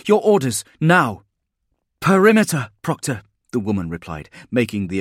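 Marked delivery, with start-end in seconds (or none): 0.0-1.2 loud, high-pitched, commanding bark; barked demand. A narrator's reading. Spinoza demands the troopers' orders, barked. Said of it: "she barked". 2.0-3.2 high, loud reply to a superior; urgent military report. A narrator's reading. Trooper answers the Proctor's demand, urgent report.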